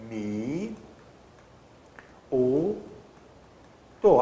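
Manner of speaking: "mi, u, do" said slowly, one syllable at a time with pauses; split into syllables. Shown as a demonstration. Teacher breaking miúdo into syllables for the class, slow and deliberate. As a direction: spell out "mi" "u" "do" separately. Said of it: "Ó, miúdo".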